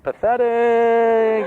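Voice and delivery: a long, drawn-out sneer, with a laugh in it; scornful drawl. Retold or imitated. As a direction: stretch the word out in mock disgust. Onlookers judging a midlife crisis.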